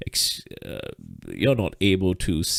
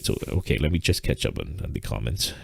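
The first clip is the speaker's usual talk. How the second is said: breathless, heavy breathing; 5 semitones lower than usual. Real, not acted. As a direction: speak while still catching your breath. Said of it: "sorry for the heavy, heavy breathing".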